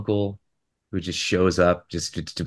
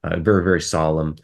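1 solemn newscaster; 4 semitones lower than usual. Retold or imitated. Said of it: "an American newscaster would be like".

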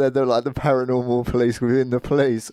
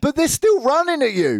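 much higher-pitched, exasperated protest; incredulous rant; 14 semitones higher, 3 dB louder than usual. Real, not acted. Podcaster rants to co-hosts about a film's zombie plan, incredulous. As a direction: argue the absurdity, pitch jumping up.

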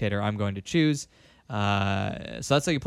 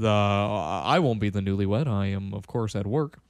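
Obama impression, laid-back drawl; Obama accent; 4 semitones lower than usual. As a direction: do your best Obama. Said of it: "where did my accent go".

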